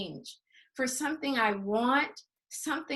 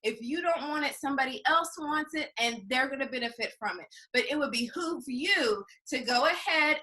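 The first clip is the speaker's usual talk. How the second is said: softer, easygoing, unbothered sales talk; casual nonchalant pitch; 5 dB quieter, faster than usual. Retold or imitated. Lightly voiced relaxed seller pitching to a customer, nonchalant. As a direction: shrug it off, take it or leave it. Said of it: "I'm very casual, nonchalant".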